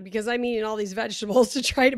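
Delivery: chuckling through the words; laughing. Real, not acted. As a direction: laugh while you say it. Laughs while saying it.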